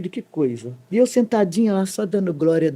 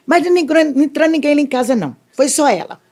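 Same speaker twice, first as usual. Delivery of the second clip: higher, agitated, rushed denial; insistent accusation; 8 semitones higher, faster than usual. Retold or imitated. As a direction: blurt it out fast and high, insisting. Accuser insisting at police station. (acusação insistente, aguda e apressada)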